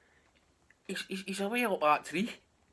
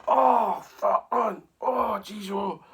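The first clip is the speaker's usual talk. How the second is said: winded groaning; 6 semitones higher, 8 dB louder, much slower than usual. Retold or imitated. Bones groaning after fall.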